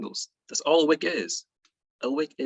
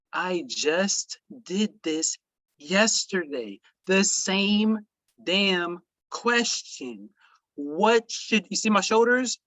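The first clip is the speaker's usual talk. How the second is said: high, slow, drawn-out exasperation; exasperated; 5 semitones higher, slower than usual. Real, not acted. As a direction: stretch the words out in disbelief. Mock despair at repeated question.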